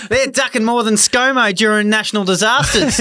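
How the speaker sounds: sledge through laughter; laughing through the jab; bad acting. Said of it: "deliver it like we're out in the ground".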